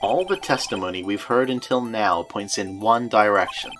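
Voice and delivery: measured attorney's reading, building at the end; courtroom game dialogue. Acted. Attorney addressing the court about the witness, measured and deliberate.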